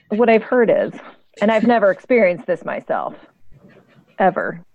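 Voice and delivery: tongue-in-cheek denial with deliberate pauses; sarcastic. Real, not acted. Co-host jokes about never having had withdrawals, sarcastic. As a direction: feign innocence, letting each phrase hang. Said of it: "I'm being sarcastic".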